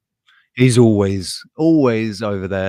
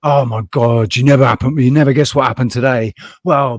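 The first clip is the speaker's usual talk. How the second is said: loud, quick rant opener; mock agitated friend; 6 dB louder than usual. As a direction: imitate a worked-up friend bursting in. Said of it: "and they'd be like".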